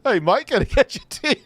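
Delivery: high-pitched attempt at a Western accent; mock Western accent. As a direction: tease with a put-on Western accent. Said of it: "a Western accent".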